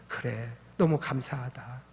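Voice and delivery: soft and slow, leaning on 너무; grateful and gentle, 너무 drawn out; tender thanks. Retold or imitated. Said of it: "하면서 그런 이야기를 한 적이". (조용하고 천천히, "너무"를 늘여서 감사하게)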